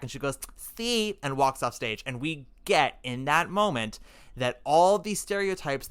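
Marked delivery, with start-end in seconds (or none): 0.6-1.2 put-on a bright, much higher Latina-accented "See"; accent back on. Maria turns to the important person, Latina accent back on. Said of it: "Accent is back".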